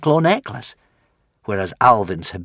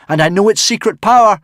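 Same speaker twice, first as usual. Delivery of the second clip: higher, louder defiant shout; 12 semitones higher, 9 dB louder than usual. Acted. Hiccup shouting up to the dragon Furious. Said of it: "Hiccup shouted".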